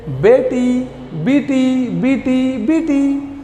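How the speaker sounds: gently cooing बेटी; affectionate. Shown as a demonstration. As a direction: call the little daughter lovingly. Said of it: "बेटी को प्यार से कहिए". (बेटी को प्यार से पुकारते हुए)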